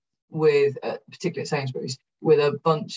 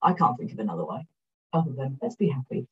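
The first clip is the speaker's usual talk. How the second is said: ordinary talk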